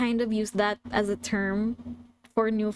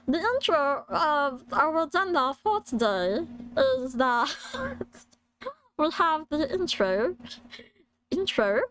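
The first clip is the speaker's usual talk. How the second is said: put-on struggling British-accented creature voice, cracking into giggles; Stitch; 3 semitones higher than usual. Presenter doing the agenda as a British Stitch, laughing. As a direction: attempt a cartoon alien with a British accent. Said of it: "I will try to do a Stitch voice in a British accent".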